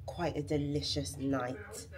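talking with a retainer in; retainer-muffled speech; wearing a retainer. Real, not acted. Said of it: "Sorry, I sound funny".

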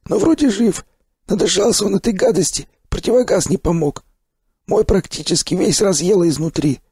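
high, cheery gruff stalker praise; hearty stalker. Acted. Sipliy cheers the revived narrator in a high, hearty voice. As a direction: clap him on the back with your voice.

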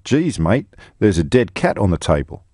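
put-on light Australian accent on a quoted adviser; a quick sketch of an Aussie bloke. Presenter quoting an Australian campaign adviser in an Australian accent. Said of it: "the last time I will do an Australian accent".

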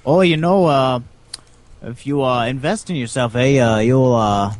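playful put-on Canadian accent, eh. Conquering player mocking Canada in a Canadian accent. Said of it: "my Canadian accent".

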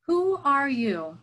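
put-on a hidden old hermit calling out slowly; old man in a cave challenging a stranger, wary; voice from the dark. A narrator's reading. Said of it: "came a voice from the dark".

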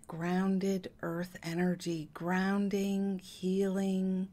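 gentle guiding voice with long pauses; lightly hushed meditation lead, leaving room to breathe; guided meditation. Acted. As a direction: calmly guide them phrase by phrase.

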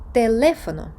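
Телефоно stressed on le; accented syllable stress. Shown as a demonstration. Teacher repeating the right form, Телефоно stressed on le. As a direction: lean firmly on the second syllable of Телефоно. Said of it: "якщо ми бачимо графічний наголос".

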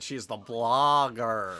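imitating. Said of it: "that's how you said it".

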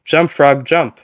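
loud, high command shout; yelling at the frog. Retold or imitated. Scientist yelling at frog to jump. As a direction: bark the order at the frog.

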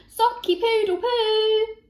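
high, loud garbled cockerel call; botched crow. A narrator's reading. Rabbit tries the cockerel's call, botched crow. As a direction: crow it wrongly but wholeheartedly. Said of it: "Rupert tried again".

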